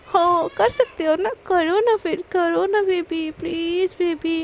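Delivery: slow, drawn-out teasing dare; wife goading her husband, slow and teasing; playful dare. Acted. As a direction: goad him slowly.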